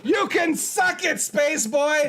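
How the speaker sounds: slow shouted taunt; shouting. Acted. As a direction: yell the insult slowly at a rival. Trash talk at rival.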